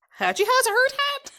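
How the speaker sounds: put-on Jamaican accent. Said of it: "that doesn't sound like words".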